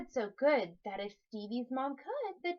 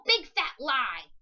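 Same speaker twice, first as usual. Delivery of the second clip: loud, slow call on big fat lie; calling out the name; 9 dB louder, slower than usual. Acted. Con man summoning the monster, loud and slow. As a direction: summon him with a drawn-out shout. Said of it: "he called out".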